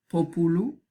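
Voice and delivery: "populu" stressed on the first syllable, PO-pu-lu; antepenultimate stress. Shown as a demonstration. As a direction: say "populu" as PO-pu-lu, rising at the end. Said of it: "el acento recae en la tercera desde el final".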